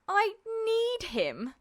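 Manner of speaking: mocking laugh. A narrator's reading. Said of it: "he quoted, the words shaking with laughter".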